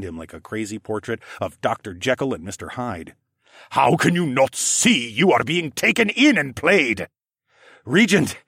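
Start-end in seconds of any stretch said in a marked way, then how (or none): 3.7-7.1 lightly voiced scheming reptile man; reptile regent. A narrator's reading. Narrator voices Siskorn. 7.8-8.4 loud, higher shout of the word; father shouting over the gale; screamed over wind. A narrator's reading. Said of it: "I screamed over the gale".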